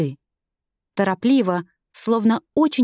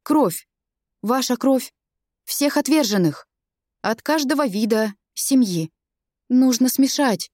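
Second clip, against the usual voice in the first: halting, flustered. Acted. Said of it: "сбивчиво говорил".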